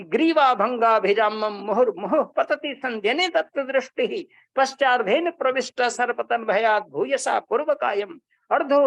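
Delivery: measured recital of a classical shloka; Sanskrit verse recitation. Acted. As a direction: chant the verse like a reciter of poetry. (Sanskrit श्लोक का सस्वर पाठ)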